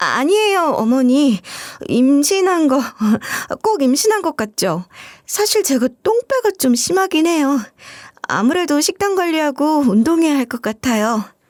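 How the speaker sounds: high, flustered, flustered-sounding delivery.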